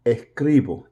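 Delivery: Puerto Rican Spanish, dropping the s in "Escribo"; Puerto Rican accent. Shown as a demonstration. Teacher slips while modeling a verb, Puerto Rican accent. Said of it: "Puerto Rican accent in there".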